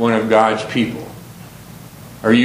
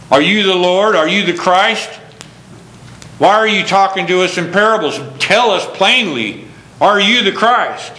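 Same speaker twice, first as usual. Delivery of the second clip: demanding Jews; 6 semitones higher than usual. Acted. Jews demanding answers from Jesus.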